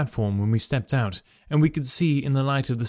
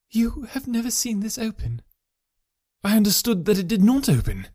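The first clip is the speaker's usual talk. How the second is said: wife questioning; 9 semitones higher than usual. A narrator's reading. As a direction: ask him gently. Wife and husband over locket.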